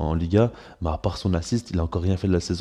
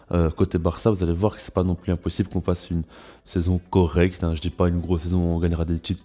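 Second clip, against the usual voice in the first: talking with a stuffy nose; blocked nose. Real, not acted. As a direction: speak through a blocked nose. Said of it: "j'ai le nez bouché".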